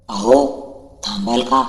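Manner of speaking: loud call to stop her; a loud shout to make her stop. Acted. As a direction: call out after her from a distance. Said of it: "मी बेंबीच्या देठापासून ओरडलो".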